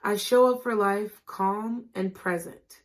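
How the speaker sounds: slow affirmation. Shown as a demonstration. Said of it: "Say it with me".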